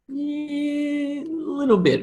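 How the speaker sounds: tag. Pretend. Squeaky aside on accents.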